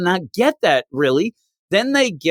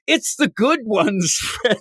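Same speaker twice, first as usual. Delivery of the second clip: mock yell; 7 semitones higher, slower than usual. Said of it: "They end up yelling".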